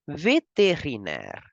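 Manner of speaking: Vétérinaire joined up smoothly in French; whole word. Shown as a demonstration. Teacher blends the syllables back into one word. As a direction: put the syllables back together. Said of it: "We say".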